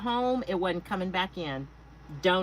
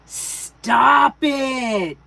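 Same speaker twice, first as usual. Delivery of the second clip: loud, higher, mock-scolding outburst; disbelieving shout; 4 semitones higher, 11 dB louder than usual. Real, not acted. Reacting to Stacy's party news, disbelieving shout. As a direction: burst out in playful disbelief.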